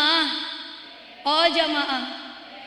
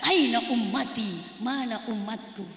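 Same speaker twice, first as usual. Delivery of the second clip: lower, much softer, slow plea; hushed longing; 5 semitones lower, 5 dB quieter than usual. Acted. The Prophet asks softly after his people, full of longing. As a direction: breathe the question out tenderly. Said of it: "Tapi yang beliau tanyakan".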